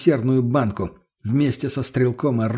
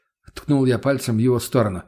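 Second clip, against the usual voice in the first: plain reading voice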